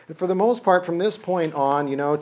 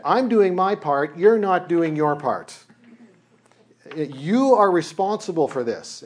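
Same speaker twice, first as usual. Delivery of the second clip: slower, louder, higher protest; indignant complaint; 3 semitones higher, 3 dB louder than usual. Acted. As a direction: jab the blame at him, each word deliberate. Moses complaining to God.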